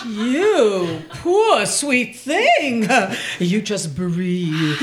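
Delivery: soothing. Acted. Shopkeeper soothes nervous customer.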